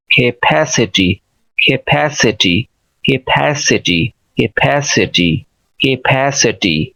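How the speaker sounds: slow "capacity" with stressed, aspirated "PA"; weak first syllable, then punch "pa" in "capacity"; stress on second syllable. Shown as a demonstration. Teacher drilling the word, careful stressed "capacity". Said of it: "इस तरह से आप इसको pronounce करेंगे".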